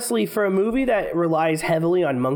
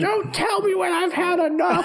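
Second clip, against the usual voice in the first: much higher belligerent monkey voice; drunk monkey voice. Pretend.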